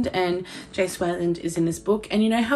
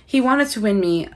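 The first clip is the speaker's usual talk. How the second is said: put-on reading aloud in a light American accent; 3 semitones higher, 3 dB louder than usual. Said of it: "read this in an American accent".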